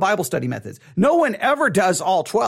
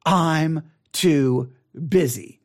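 low, slow, drawn-out mock excuse; 6 semitones lower, much slower than usual. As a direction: drag out "I'm too busy" like a lazy student. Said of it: "the famous words".

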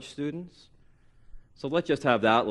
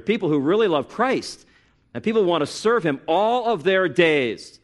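raised-pitch, emphatic pulpit conviction; forceful preaching; 6 semitones higher, 5 dB louder than usual. Real, not acted. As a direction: declare your conviction to the congregation. Preaches conviction about college ministry.

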